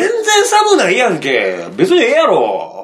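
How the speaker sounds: high, drawn-out protest; comic indignant retort; indignant comeback. Real, not acted. Protesting teasing from co-host.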